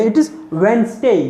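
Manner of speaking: it is Wednesday said very slowly, z sound clear; slow classroom model of Wednesday; slow demonstration. Shown as a demonstration. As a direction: draw out it is Wednesday word by word. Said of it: "तब आपको पता चलेगा".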